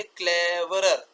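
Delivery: क्लेवरर drawn out as cle-ve-rer; three sounds. Shown as a demonstration. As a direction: slowly stretch all three syllables of क्लेवरर. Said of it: "तो दो तीन हो सकते हैं". (क्लेवरर को खींचकर तीन साउंड में)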